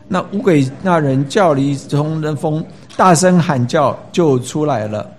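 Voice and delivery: scripture reading. Acted. Pastor reading Mark to the congregation, solemn scripture reading. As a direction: read the Bible passage out to the congregation.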